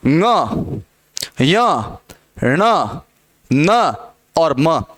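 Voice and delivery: ng, य, ण, न, म each alone, low, with pauses between; isolated nasal sounds. Shown as a demonstration. Teacher sounding out five nasals for students, ng to म separately. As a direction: pronounce ng, य, ण, न, म singly as nasal syllables. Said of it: "आप इनका उच्चारण करो".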